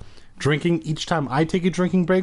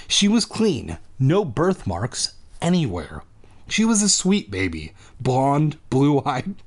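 measured storybook reading with swinging intonation; story narration; slower than usual. A narrator's reading. Reader telling a monster-baby story, lilting story narration. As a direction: read it out like a tale.

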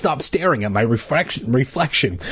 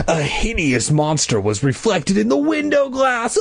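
high, scared cry; frightened shout; 9 semitones higher than usual. Acted. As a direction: cry it out in horror. Narrator sees the monster.

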